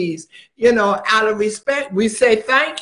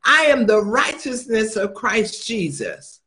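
bold decree. Shown as a demonstration. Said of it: "you have to decree and declare".

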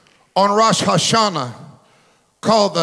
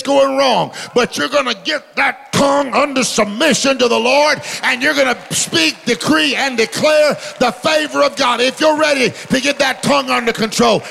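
full-force preaching; 3 semitones higher than usual. Real, not acted. Pastor declaring over his church, preaching at full force.

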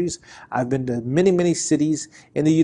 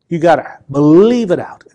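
loud declaration; 7 dB louder than usual. Real, not acted. Preacher rises after whisper.

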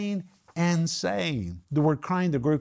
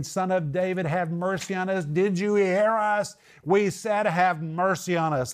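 higher-pitched, insistent pleading; mock yelling plea; 5 semitones higher than usual. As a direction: act out blind men crying out, without full shouting. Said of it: "They're yelling and screaming".

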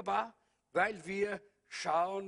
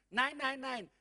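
usual speaking voice

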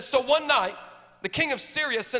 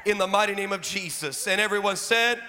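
preacher praying over the church, building to shouts; fervent prayer. Real, not acted. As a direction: lead the prayer, rising into declarations. Leads a prayer.

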